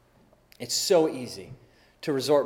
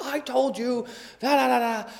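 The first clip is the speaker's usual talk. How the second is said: higher-pitched mock scolding, not shouted; pretty harsh; 7 semitones higher than usual. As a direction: scold the kids without yelling. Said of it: "I was pretty harsh with them".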